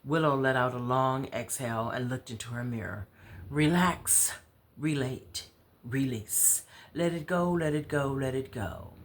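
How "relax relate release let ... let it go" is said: calming mantra. Acted. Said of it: "You sound like you talking to you".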